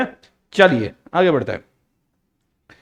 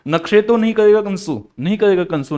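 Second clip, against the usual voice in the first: coaxing; 4 semitones higher than usual. Shown as a demonstration. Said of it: "आगे से क्या बोलोगे".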